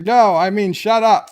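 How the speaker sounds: mock furious captain yelling shut up; hammed-up shout. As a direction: shut up yelled loud and high. Captain yells at Wesley.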